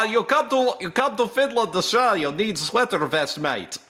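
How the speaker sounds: a hint of an Aussie accent, mixed up; mock Australian accent. To the Finnish listeners, a mangled Australian accent. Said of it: "I don't know what accent that was".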